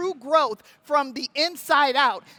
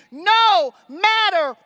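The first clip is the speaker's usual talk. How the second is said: battle cry; 4 semitones higher, 4 dB louder than usual. Acted. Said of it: "the war call".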